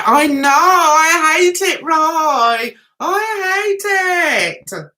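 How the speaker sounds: hammed-up wailing, slow and sung; mock crying. Teased by Roy, wails mock-tearfully. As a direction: fake sob it at Roy, drawn out.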